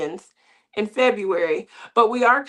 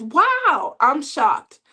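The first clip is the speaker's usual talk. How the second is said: a high, louder wow of astonishment; shocked grandmother; 5 semitones higher, 4 dB louder, much slower than usual. Retold or imitated. Grandmother hearing her grandson is serious, shocked wow. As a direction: act floored by the news. Grandmother reacts to marriage talk.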